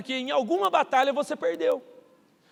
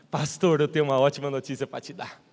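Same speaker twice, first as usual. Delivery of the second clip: much lower, cheerful announcing pastor; deep-voiced colleague; 8 semitones lower than usual. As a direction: drop the voice way down for the colleague. Fellow pastor announces good news.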